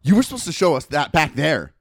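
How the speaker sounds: acted-out testy complaint; retold scolding. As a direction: scold the customer, imitating annoyance. Irritated worker scolding customer.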